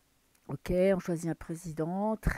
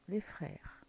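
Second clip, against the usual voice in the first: chuchoté; 8 dB quieter than usual. Real, not acted. Lit une carte à voix basse.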